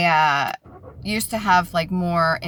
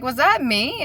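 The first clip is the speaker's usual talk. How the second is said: puzzled self-questioning; 7 semitones higher than usual. Retold or imitated. Retelling confusion over a stranger's voice.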